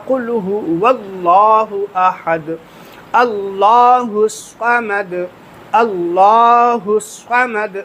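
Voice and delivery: slow chanted قل هو واللہ احد, اللہ الصمد; correct recitation. Shown as a demonstration. Teacher recites the correct version for students, slow chant. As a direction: recite slowly with a full, heavy لام in اللہ. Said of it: "یہ صحیح طریقہ ہے".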